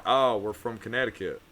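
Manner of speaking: put-on Southern accent. Drunk Yankee fooling strangers, put-on Southern accent. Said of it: "I dropped my accent".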